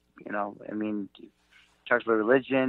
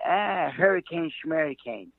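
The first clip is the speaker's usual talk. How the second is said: put-on old Jewish man dismissive; 3 semitones higher, slower than usual. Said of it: "like an old Jewish man".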